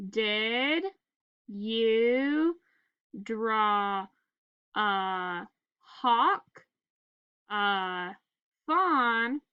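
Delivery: one word at a time with pauses; staccato. Shown as a demonstration. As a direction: read each word separately, slowly. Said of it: "Let's sound it out together".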